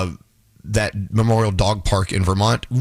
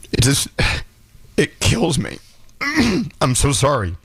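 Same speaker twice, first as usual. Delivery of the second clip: emotional; 4 semitones higher than usual. Real, not acted. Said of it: "I got so emotional".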